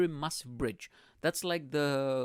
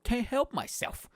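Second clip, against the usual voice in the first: mock sexy voice; 9 semitones higher, slower than usual. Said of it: "with this sexy voice".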